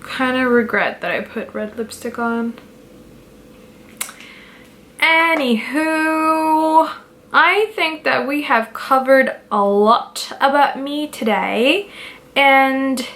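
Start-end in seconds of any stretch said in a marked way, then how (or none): 5.0-13.1 slow, higher, mock-posh British accent; put-on British accent. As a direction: drawl it out in a playful British accent. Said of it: "I don't know why I'm speaking in, uh, English or British".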